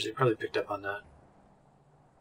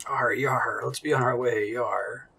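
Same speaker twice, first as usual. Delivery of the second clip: lightly voiced pirate growl of arr and yar; half-whispered hammed-up pirate; pirate talk; slower than usual. Player to the crew, mock pirate talk. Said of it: "Why are you talking like that?".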